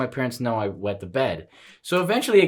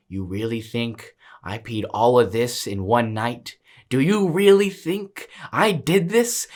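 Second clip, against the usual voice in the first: retold manly voice; 4 semitones lower than usual. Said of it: "I got into my manly voice".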